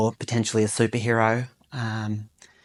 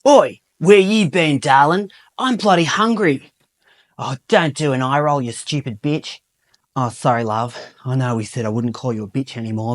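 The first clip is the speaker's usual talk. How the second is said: typical Aussie male; 3 semitones higher than usual. Acted. Improv bloke on the couch nagging his girlfriend, ocker voice. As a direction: ham up a lazy ocker boyfriend. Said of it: "take on the role of a typical Aussie male".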